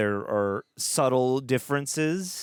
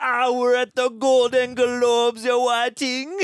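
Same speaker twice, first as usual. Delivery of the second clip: very high, raised, put-on Jamaican patois voice; 14 semitones higher, 7 dB louder than usual. Describing a man's red carpet video to a listener, imitating someone speaking patois. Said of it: "speaking patois".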